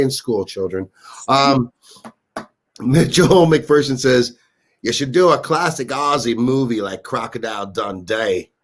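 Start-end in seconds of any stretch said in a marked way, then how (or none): 4.8-8.5 attempted Aussie accent; lightly put-on Australian accent. Reading a viewer's comment in a mock Australian accent. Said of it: "I'm asking the Australian".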